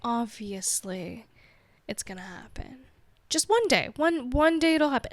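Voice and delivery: lightly voiced encouraging inner voice; reassuring inner voice. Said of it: "the part that I've cultivated is always like".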